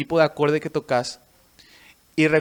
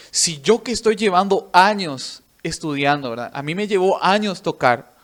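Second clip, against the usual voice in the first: retold indignant disbelief; 2 semitones higher, 5 dB louder than usual. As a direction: imitate an offended teacher refusing to believe it. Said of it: "recuerdo que se fue enojado".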